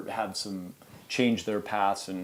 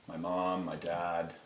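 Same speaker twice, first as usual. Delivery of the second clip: mock thank-you speech; 5 semitones lower, 9 dB quieter than usual.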